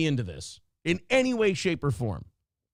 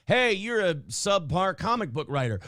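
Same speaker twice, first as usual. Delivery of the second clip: mock shout. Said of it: "you could look at him and just go".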